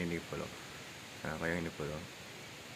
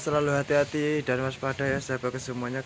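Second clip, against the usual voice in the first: shouting over wind; 5 semitones higher, 5 dB louder than usual. Real, not acted. Outdoors in strong wind.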